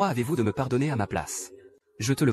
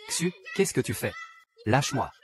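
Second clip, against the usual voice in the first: frightened cry. Acted. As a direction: scream at him to stop. Woman attacked, crying out. (cri de panique)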